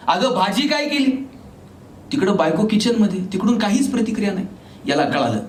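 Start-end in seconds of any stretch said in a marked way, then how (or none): 0.1-1.1 lightly acted call into the house. Husband calls to wife from the door, mildly acted calling out. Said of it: "यानं आवाज दिला".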